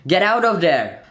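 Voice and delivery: high, loud urgent command; shouted warning. A narrator's reading. Arkin warns Lucilla in the mannequins, urgent shout. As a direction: yell a warning across the room.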